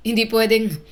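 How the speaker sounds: a touch of tremble in disbelief; trembling voice. A narrator's reading. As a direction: break off mid-protest, voice trembling. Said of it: "Mahina pero nanginginig ang boses niya".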